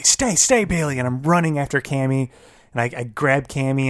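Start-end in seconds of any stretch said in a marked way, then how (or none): 0.0-1.0 light imitation of calling a dog; retold yell. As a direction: call the dog to stay, held back. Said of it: "I'm yelling at Bailey".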